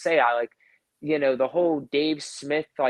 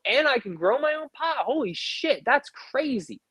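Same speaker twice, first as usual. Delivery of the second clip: higher, hammed-up thrilled youngster; imagined excited young voter; 4 semitones higher than usual. Young viewer hearing about Dave Smith, higher mock excitement. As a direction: play a stoner kid lighting up at the news.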